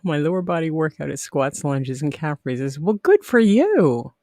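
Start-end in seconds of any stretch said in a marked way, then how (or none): 2.8-4.1 mock praise. Real, not acted. Praising viewer's workout.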